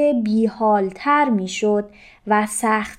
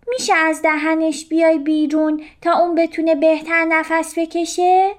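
higher fish voice asking politely, quick; polite request; 6 semitones higher than usual. A narrator's reading. Little fish first asking the jellyfish politely. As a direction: ask nicely first, not yet shouting.

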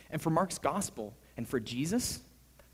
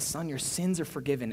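lovingly. Acted. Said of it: "lovingly says".

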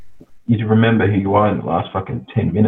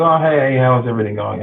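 lightly voiced cop greeting, pitched up at the start; a hint of a chatty officer making an approach; imitated friendly cop; 4 semitones higher than usual. Voicing police approaching casually.

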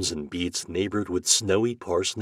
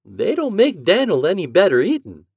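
higher, louder doubtful farm wife; mother objecting to the plan; 10 semitones higher, 7 dB louder than usual. Acted. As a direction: push back drily. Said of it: "objected his mother".

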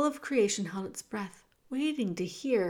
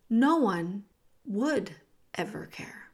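usual speaking voice

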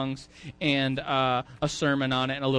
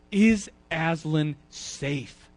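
put-on slow, timid child asking; a little girl afraid to ask; scared little girl; much slower than usual. Lucy asking the Beavers about the lion, slow and timid. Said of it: "the scared little girl".

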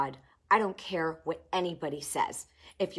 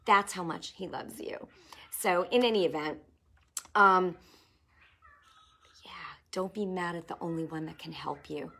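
whisper. Real, not acted.

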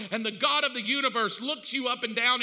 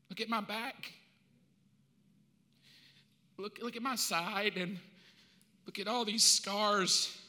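gentle Jesus; 3 semitones lower than usual. Acted. Jesus showing his scars.

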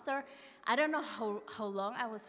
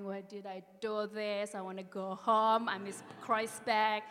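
half-hearted retold wail, louder by the end; mock crying wail; 5 dB louder than usual. Lost on the mountain, wailing to herself in mild mock despair. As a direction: replay the lost hiker's moan, lightly. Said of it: "start screaming, crying".

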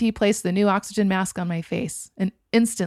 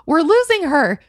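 higher, louder alarm; urgent alarm; 9 semitones higher, 8 dB louder than usual. A narrator's reading. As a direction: raise the alarm. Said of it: "repeated in urgency".

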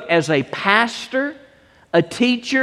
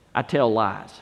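quiet confession; 9 semitones lower, 7 dB quieter than usual. Retold or imitated. Punchline confession.

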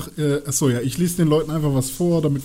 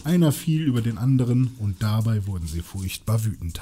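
Vorlesen aus einem Buch; 3 semitones lower than usual. Acted. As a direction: read the battle scene out deliberately. (langsam erzählend vorgelesen)

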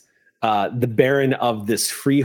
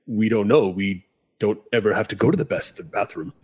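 armor voice; 3 semitones lower than usual. A narrator's reading. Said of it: "you hear the voice say".

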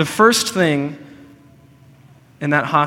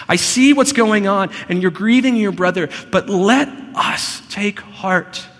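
Jesus comforting, raised and louder, slowing at the end; voicing Jesus; 6 semitones higher, 6 dB louder than usual. Jesus consoles grieving Martha, voiced raised and louder. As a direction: plead gently but with force, as Jesus.

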